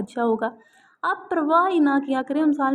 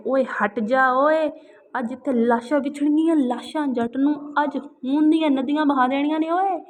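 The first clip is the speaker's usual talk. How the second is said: Sultan Rahi imitation; 2 semitones higher, 4 dB louder than usual. Granddaughter teasing grandmother, imitating a filmi Punjabi hero loudly. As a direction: ham up a mock filmi Punjabi hero roar. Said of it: "हंसते हुए सुल्तान राय की नकल की".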